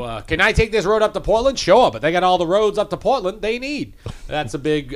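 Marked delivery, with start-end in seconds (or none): 0.2-3.9 put-on Maine accent. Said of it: "that's from an old comedy record".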